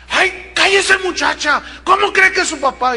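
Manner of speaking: dismissive mother. Retold or imitated. Mother silencing her daughter, high sharp scolding. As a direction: brush the girl off like her mother did.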